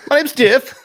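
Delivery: high, goofy Jason who can barely form words; mock monster attempting speech; Jason struggling to talk. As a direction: blurt it out in a silly, high put-on voice. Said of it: "he doesn't know how to talk".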